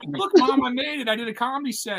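high-pitched imitation of a thrilled kid; mock proud excitement. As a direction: gush like you're showing off to Mom. Mimicking thrilled comics beside him.

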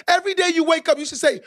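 preacher's emphatic repeat. Shown as a demonstration. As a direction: raise it up and punch it out. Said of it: "Let me say that one more time".

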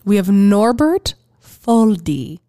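slow, grand announcement; announcer. Pretend. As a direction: present the name like an award. Announcing award winners.

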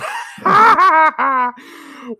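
high burst of laughter; big delighted laugh; loud laugh. Real, not acted. Laughing about Mako's arrival.

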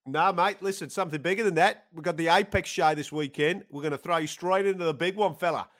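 matter-of-fact put-on Australian matchmaker; the speaker in Australian accent. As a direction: pitch the big news in Australian. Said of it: "better Australian accent".

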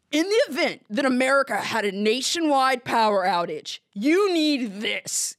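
lightly voiced Southern ad pitchman; a hint of authority, drawing out the last words; authoritative adman. Imitated ad man warning viewers of an outage, authoritative. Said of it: "like, very authoritative, like, I don't know, Southern or Midwestern guy".

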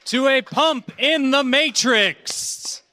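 hammed-up sci-fi prophet welcoming the lost; mock Matrix prophet. Host greets the live crowd as a mock Matrix prophet.

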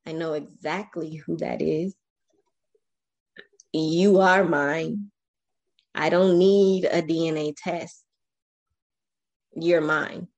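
mild emotional father; understated tearful conviction; retold tearful dad. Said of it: "he starts crying".

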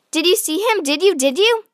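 high, rising eager questions; eager little brother. A narrator's reading. Peter eagerly quizzes his sister, high and rising. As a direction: pester her for an answer. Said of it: "asked Peter".

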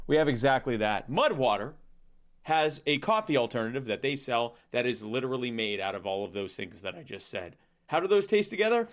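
mock ad read.

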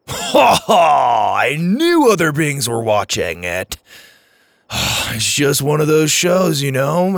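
loud, high whoop into gushing; triumphant. A narrator's reading. Driver learns aliens watch Stargate, triumphant. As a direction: crow in delight, then sigh with fannish feeling. Driver punches air, thrilled.

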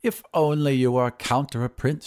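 mildly wistful lady; understated sigh of longing. Acted. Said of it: "she sighed".

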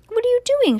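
very high, startled storybook shout; alarmed shout. A narrator's reading. Driver to stowaway in back seat, shouting. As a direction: cry out with pitch leaping up. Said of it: "shouted Mister Watson".

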